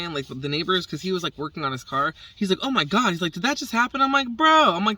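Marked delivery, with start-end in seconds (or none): 2.6-4.0 high, amazed "oh my God"; shocked neighbor. Retold or imitated. Neighbor reacting to the crow drop, high and amazed. 4.3-4.7 loud, high "Bro"; excited bro. Retold or imitated. Telling the neighbor what happened, shouted high and loud. Retelling her excited reply.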